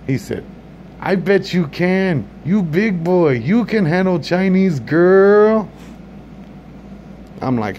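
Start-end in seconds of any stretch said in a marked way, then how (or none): 1.0-5.7 mock accent. Comedian voices restaurant worker.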